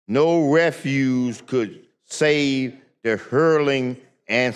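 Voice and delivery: slow, emphatic, declaimed reading; deliberate public reading of an anthem verse; reading a stanza aloud. Real, not acted. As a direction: recite the verse slowly, word by weighty word. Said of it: "The third stanza reads just like this".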